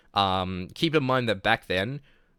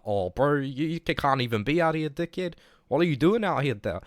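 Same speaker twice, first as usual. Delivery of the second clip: higher-pitched mock Kiwi cop; lightly voiced officer, pitched up in disbelief; imitated police officer; 6 semitones higher than usual. Police officer telling a kid he can't be out here, imitated. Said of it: "It was more like".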